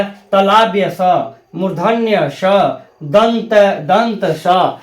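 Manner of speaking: तालाब्य स, मूर्धन्य स, दंत स in careful separate syllables; correct pronunciation demo. Shown as a demonstration. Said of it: "इसका शुद्ध उच्चारण होगा". (तालाब्य स, मूर्धन्य स, दंत स का साफ़ उच्चारण)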